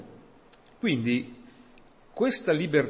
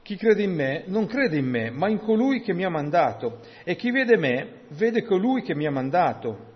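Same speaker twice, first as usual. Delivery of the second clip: high, loud proclamation; raised-voice, emphatic Bible reading; crying out scripture; 5 semitones higher, 6 dB louder than usual. Acted. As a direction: declaim the verse as a public cry. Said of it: "O Gesù gridò e disse".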